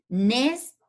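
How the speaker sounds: second syllable "nes" said on its own. Shown as a demonstration. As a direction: isolate "nes", pausing around it. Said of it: "si vamos a separar". (la sílaba "nes" pronunciada por separado)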